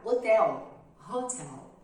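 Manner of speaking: "hotel" with a breathy h sound; English h in hotel. Shown as a demonstration. Teacher showing students the h of "hotel". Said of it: "Já com H".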